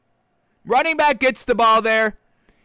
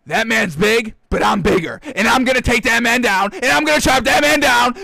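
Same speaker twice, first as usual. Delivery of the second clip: louder, pumped-up self pep talk; pep-talking defender; 4 dB louder than usual. Retold or imitated. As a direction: psych yourself up in the mirror. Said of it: "look in the mirror and be like".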